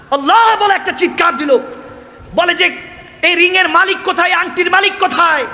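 crying out. Acted. King cries out asking where the ring's owner is.

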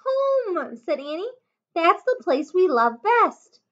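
put-on high, loud, delighted girl finding the answer; light up as she gets it; thrilled Annie. A narrator's reading.

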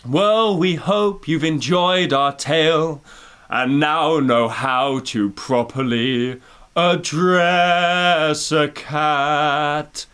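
low, slow, grand Dame voice; a mock stately actress narrating; imitating Judi Dench. Mimicking the actress closing the film, slow and grand. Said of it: "And she goes".

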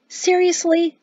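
high-pitched disbelieving question; hiked-up pitch, only lightly whispered; incredulous whisper. A narrator's reading. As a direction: react in disbelief. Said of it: "Jatesy whispered back".

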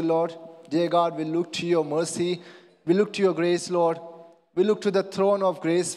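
earnest, steady congregational prayer; spoken prayer. Acted. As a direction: lead the church in prayer to the Father.

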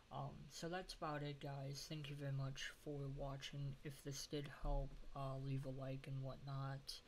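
stuffy nasal voice after nose surgery. Real, not acted. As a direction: talk through a blocked, nasal nose. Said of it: "Sorry if I sound a little bit nasally".

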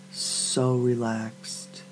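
soft, slow and drawn out; soothing relaxation cue. Acted. Guide near the end of the countdown, soft and slow.

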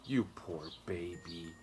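mild sobbing. A narrator's reading. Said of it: "she sobbed".

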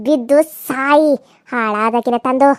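villain slowly cursing the victim; slow contemptuous curse. Acted.

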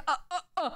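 short soft grunts; three quiet staccato "uh"s; acted reaction noises. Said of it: "And I was like".

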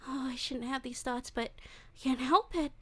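creepy, giddy yandere voice, swinging between coos and hushed whispers; obsessive captor. Acted. Captor coos at tied-up Wolfie, creepy and giddy. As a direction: coo over your helpless captive like a lovesick stalker.

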